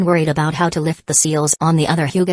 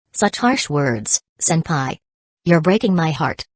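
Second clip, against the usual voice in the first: mock grievance. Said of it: "with mock grievance".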